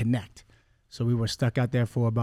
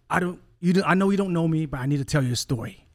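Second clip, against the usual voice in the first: higher, urgent retelling of a crying woman; retold tearful plea; 4 semitones higher, faster than usual. Coach's wife approaches him with a story, retold tearful plea. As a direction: imitate her emotional plea, lightly. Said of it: "she was crying, tears were falling".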